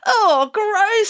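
high, loud cry of disgust. A narrator's reading. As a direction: groan it out like grossed-out children. Children react in disgust.

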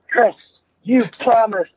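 high, pleading mock whine; high-pitched half-crying plea; whiny yell. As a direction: whine it like a scared kid begging. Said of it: "he's yelling at me".

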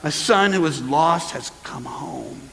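slow, hushed, savoring each word; a gently voiced father, drawing it out; father welcoming son. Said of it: "what does the father do?".

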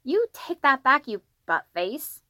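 put-on high, slow, indignant kid shout; child's angry yell. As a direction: yell at a brother in a small boy's voice. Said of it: "as he yelled".

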